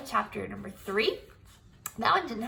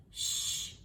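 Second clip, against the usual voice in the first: shushing; 9 dB quieter than usual. Acted. May shushing the kids.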